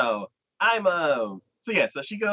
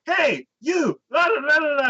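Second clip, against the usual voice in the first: high-pitched, raised-voice ranting; mock angry confrontation; 4 dB louder than usual. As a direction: burst in with a hammed-up tirade. She busts in, confronts host.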